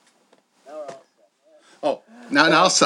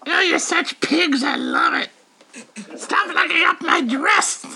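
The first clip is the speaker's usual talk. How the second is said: sassy doll voice; 6 semitones higher than usual. Acted. Doll teasing the hosts.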